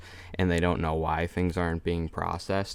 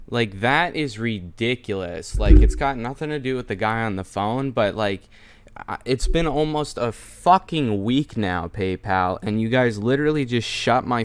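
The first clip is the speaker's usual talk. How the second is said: frustrated rant; 2 semitones higher, 5 dB louder than usual. Real, not acted. Ranting after call to PayPal.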